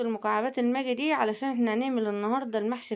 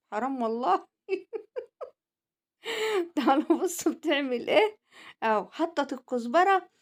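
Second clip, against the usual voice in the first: laughing, teasing herself on screen; amused laughing aside to viewers; laughing tease; 3 semitones higher than usual. Real, not acted.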